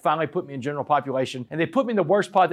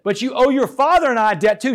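higher, louder motherly reproach; retold stern scolding; 8 semitones higher, 6 dB louder than usual. Mother confronting her son after his sentencing, stern scolding. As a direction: press the reproach home, voice raised.

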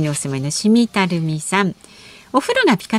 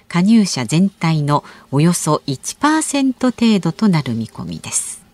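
news read. Acted. Reads news item on air.

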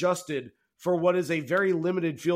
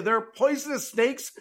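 high, laughing "There are poisonous snakes" question; laughing disbelief; 6 semitones higher than usual. Real, not acted. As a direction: ask it through a real laugh, half disbelieving.

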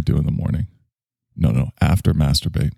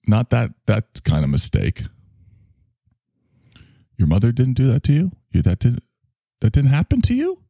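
incredulous; 6 semitones higher than usual. Acted. Shocked reaction to mother's story.

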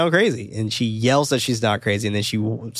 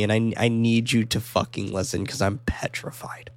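hushed plea; 2 semitones lower, 5 dB quieter than usual. Retold or imitated. Voices Rose pleading that she's petrified.

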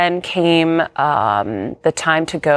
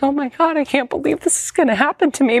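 retold panic; 8 semitones higher, faster than usual. Recalls panic on hearing diagnosis.

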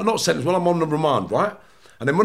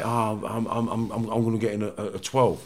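mumbled prisoner reply; 9 semitones lower, 8 dB quieter than usual. Retold or imitated. Voicing the other prisoner.

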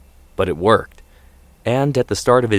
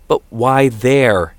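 drawn-out, higher-pitched, louder question; worried parent questioning a plan; challenging father; 4 semitones higher, 5 dB louder, much slower than usual. A narrator's reading. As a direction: press the point, stretching the words. Father challenging son's study plans.

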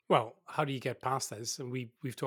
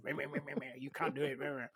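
whiny sock puppet voice; 8 dB quieter than usual. Retold or imitated. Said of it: "they're like these little".

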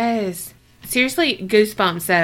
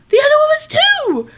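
much higher and louder, indignant squeal; outraged disbelief; 5 dB louder than usual. Retold or imitated. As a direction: shriek it in shocked outrage. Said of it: "I was like".

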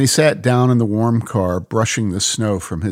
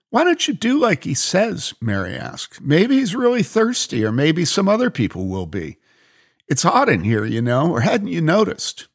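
put-on higher, insistent young woman; Mary, pushy; 7 semitones higher than usual. Mary urges the lady to fetch water, insistent.

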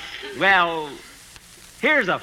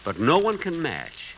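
recited poem; slower than usual. Acted. Jack reads his own poem.

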